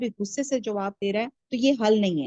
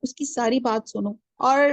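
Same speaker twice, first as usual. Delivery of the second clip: usual speaking voice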